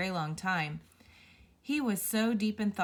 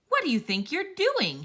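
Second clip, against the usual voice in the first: furious roar, much higher and louder; thundering; 9 semitones higher, 6 dB louder than usual. Acted. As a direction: bellow it at the stranger in rage. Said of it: "he thundered".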